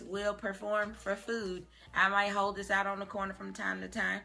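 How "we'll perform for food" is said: slow sign reading. Shown as a demonstration. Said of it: "this sign that says".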